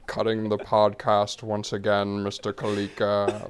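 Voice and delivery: slow, drawn-out disdainful teacher; Snape voice. Acted. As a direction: drag it out with cold contempt. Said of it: "I love doing Snape".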